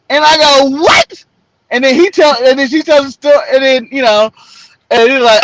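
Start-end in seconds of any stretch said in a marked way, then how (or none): 0.8-1.2 high-pitched, hammed-up startled question; shocked disbelief. Man hearing a text says he's dead, high mock shock. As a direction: shoot the pitch way up, mock-stunned. Acts reaction to news of his death.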